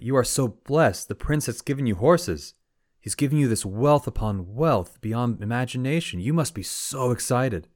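high, swooping gushing congratulations; hammed-up amazement, pitched well up; excited villagers. Villagers marvelling at the farmer's gifted horses, hammed-up excitement.

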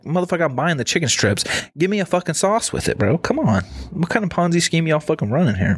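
hammed-up outrage at the sauce rule; mock indignant demand. Guy at the Walmart counter demanding a free sauce, mock indignant.

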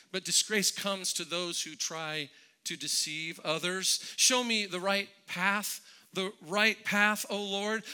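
psalm read aloud as a prayer; prayerful psalm reading. Acted.

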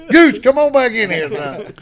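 high, loud summons to a player; hollered call. Retold or imitated. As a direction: shout him back onto the field. Retold coach calling player back.

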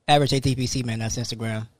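hurried, blurred-together handle; rattled off fast. Real, not acted. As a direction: run the letters together quickly. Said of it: "You said that shit so fast".

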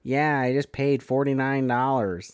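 lightly imitated nasal Wisconsin accent; nasally Wisconsin accent. Podcaster imitating an actor's Dahmer, nasally Wisconsin accent. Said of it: "kind of a nasally".

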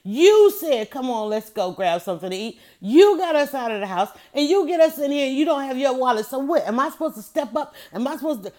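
scolding husband. Retold or imitated. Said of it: "she lit into him so bad".

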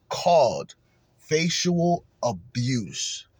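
very slow, drawn-out "Facial Abuse"; mocking emphasis. Real, not acted. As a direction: drag the name out in disbelief. Mocking emphasis on company name.

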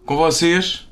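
bright announcer welcome; host intro. Acted. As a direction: present the guest like a show host.

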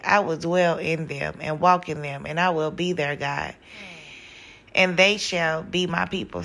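breathy, wheezing reading; wheezing slightly through the verse; wheezy voice. Real, not acted. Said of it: "I'm sound like I'm wheezing".

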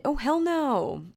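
high, slow OH HELL NO; drawn-out indignant refusal; mock outrage. Real, not acted. Vlogger reading a pet peeve aloud, hammed-up outrage. Reacting to next mistake topic.

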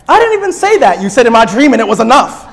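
hammed-up indignant retort. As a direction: protest as if wrongly accused in a dream. Acted angry waking from dream.

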